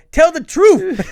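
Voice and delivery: put-on loud line in a Nigerian accent. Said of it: "And I was supposed to go".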